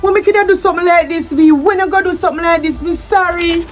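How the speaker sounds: panicked, scrambling to explain; frantic distress. Acted. Wife caught out by the DNA test, frantic distress.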